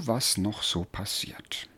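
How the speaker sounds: slow secretive whisper. Acted. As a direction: whisper it slowly, sneaking in. Sneaking into town curiously.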